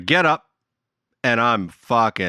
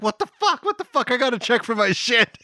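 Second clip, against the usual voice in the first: high, baffled mock panic; frantic disbelief; 12 semitones higher than usual. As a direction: act out the confused protest. Woken and removed from ship.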